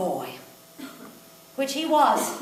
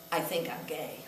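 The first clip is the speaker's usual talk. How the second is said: dramatic confession; 7 semitones lower, 10 dB quieter than usual. Retold or imitated. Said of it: "he took his dramatic pause".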